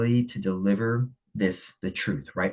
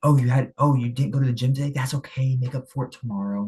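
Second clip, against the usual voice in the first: high, sugary mock reassurance, faster on the question; mock nice-guy coddling; 5 semitones higher, 4 dB louder than usual. To a friend who skipped the gym, mock soothing. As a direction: parody someone excusing a skipped gym day. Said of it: "They're like".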